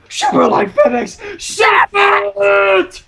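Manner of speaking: high, loud cheer; excited cheer. Real, not acted. Streamer cheers a ship from the chat, excitedly. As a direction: shout it like a fan.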